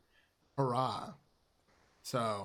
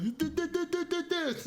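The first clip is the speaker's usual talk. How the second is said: mock stuttering fury, much higher and stuck on did; hammed-up stammer of a washed-up actor losing it; stuttering rage. Rick Dalton stutters, raging in trailer.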